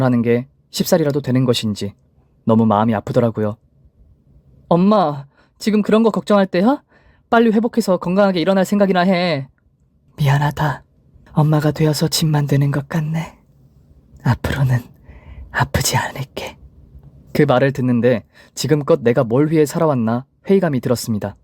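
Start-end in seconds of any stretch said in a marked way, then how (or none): 4.7-9.5 higher-pitched worried daughter; fond scolding. A narrator's reading. 딸이 아픈 엄마를 나무람. 10.2-16.6 weak apology fading into a whisper; frail sick mother. A narrator's reading. 병상의 엄마가 딸에게 사과.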